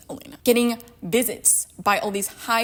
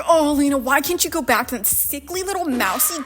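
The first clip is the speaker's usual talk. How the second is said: mock yell; faster than usual. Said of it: "screaming like".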